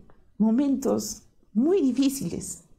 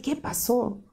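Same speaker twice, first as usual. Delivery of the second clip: asustada; 3 semitones higher than usual. Retold or imitated. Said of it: "Me asusté".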